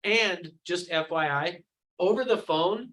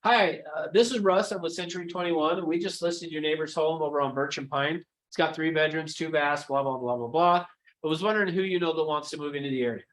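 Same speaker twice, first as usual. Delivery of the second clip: typical agent call. Shown as a demonstration. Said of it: "This is what most agents do".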